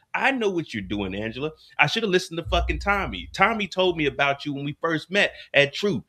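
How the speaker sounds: heated rant as James, blaming her; James ranting at Angela. Pretend. James tells Angela off after her accusation, heated rant. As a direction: play James chewing Angela out, building hurt.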